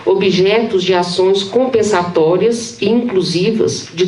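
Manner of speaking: measured academic read-aloud, phrase by phrase; formal reading aloud. Acted. Professor presenting titled excerpts on the common, formal reading aloud. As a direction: read a dense theory text evenly to an audience.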